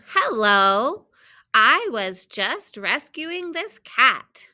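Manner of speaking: measured storybook reading with stressed key words; children's story read-aloud. A narrator's reading. Teacher reading a picture book to students, storybook read-aloud. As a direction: read it out carefully for young readers.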